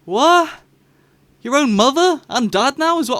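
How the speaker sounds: high, loud disbelief; outraged fan reaction; shocked outburst. Real, not acted. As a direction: squeal at the twist. Mock outrage at the plot.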